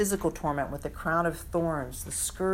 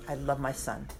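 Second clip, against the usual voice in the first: "I love my Son" said much softer and lower, almost fading out; 4 semitones lower, 7 dB quieter than usual. Shown as a demonstration. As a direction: let the last "love" sink to a hush. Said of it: "God says three times".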